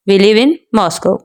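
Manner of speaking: slow model, break before Moscow, which falls; falling intonation. Shown as a demonstration. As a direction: set Moscow apart and drop its end. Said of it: "last syllable है वो down की तरफ चला जाता है". (धीरे, Moscow पर नीचे आता सुर)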